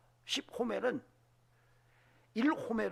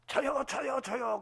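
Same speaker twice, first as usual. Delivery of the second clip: eager hands-up calling; 7 semitones higher, 5 dB louder, slower than usual. Retold or imitated. Kids volunteering in class.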